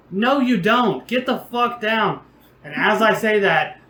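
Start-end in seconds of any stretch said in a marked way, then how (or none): 0.1-2.2 higher-pitched retold scolding; scolding order. Host to drunk friend on the fence, retold scolding. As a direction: order him down, exasperated.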